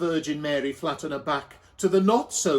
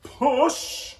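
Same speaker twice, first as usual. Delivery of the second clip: higher, coaxing voice of Joseph; 8 semitones higher than usual. A narrator's reading. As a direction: urge her on gently. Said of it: "you can do it".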